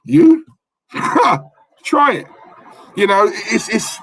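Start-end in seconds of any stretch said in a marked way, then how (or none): 0.1-2.3 defiant challenge. Real, not acted.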